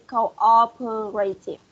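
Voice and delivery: cooperative said slowly, every syllable clear; pronunciation drill. Shown as a demonstration. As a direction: model cooperative slowly for repeating. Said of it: "read out loud the word".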